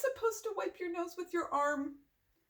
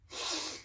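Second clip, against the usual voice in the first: soft sympathetic sigh; 7 dB quieter than usual. Acted. Reader sees how sad Gerald looks, sigh. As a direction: let out a sigh.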